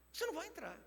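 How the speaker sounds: "Você não vai entrar" dito bem mais agudo e mais baixo; repetição aguda e suave. Shown as a demonstration. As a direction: eleve a voz no "Você", mas sussurrado. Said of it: "repete mais alto e agudo". (repetição aguda e contida)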